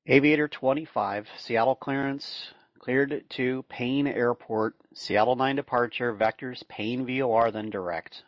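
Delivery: steady radio clearance readout; air traffic control. Acted. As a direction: read it like a tower controller.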